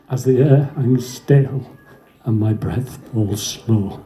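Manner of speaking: measured reading of a war poem; poem recitation. Acted. Reciting a soldier's trench poem, solemn verse reading. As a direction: recite in lines, pausing between them.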